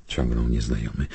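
ordinary delivery, nothing marked

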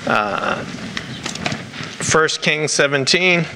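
light Rhode Island accent creeping in; New England Rhode Island vowels. Real, not acted. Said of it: "my Rhode Island accent is coming out pretty bad today".

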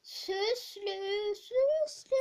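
calling out. Acted. Calling a friend.

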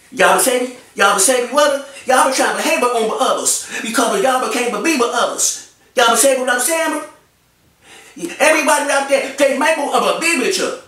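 mock him as if his mouth is full of cornbread; mumbling mock impression. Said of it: "That's how you talk, player. It's like your tongue too big for your mouth".

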